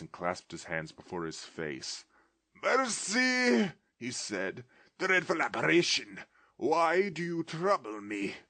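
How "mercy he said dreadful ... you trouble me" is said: high, loud begging cry; terrified plea. Acted. Scrooge on his knees begging the ghost, terrified. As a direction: beg on your knees for mercy. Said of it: "Scrooge fell upon his knees".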